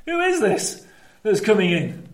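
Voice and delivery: lightly acted puzzled question; clueless bystander. Another group of people who don't know Jesus, mildly puzzled. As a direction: ask as if you have no idea. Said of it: "literally have no idea who he is".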